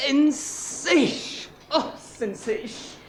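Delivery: a photographer purring over the perfect shot; drawn-out delight. Acted. Photographer relishing the pose, slow and delighted. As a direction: savour each word slowly, delighted.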